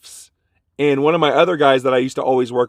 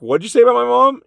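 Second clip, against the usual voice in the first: higher, louder "What'd you say about my mom?" as a hothead; retold angry shout; 11 semitones higher, 4 dB louder than usual. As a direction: shout it at the man who insulted your mom. Fifteen-year-old freaks at coworker.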